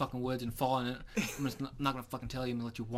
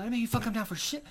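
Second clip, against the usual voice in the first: exasperated retort; 11 semitones higher, 6 dB louder, faster than usual. Retold or imitated. Retold argument with hunting buddy.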